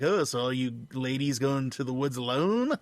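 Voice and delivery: creepy, friendly stranger voice; lightly voiced serial killer.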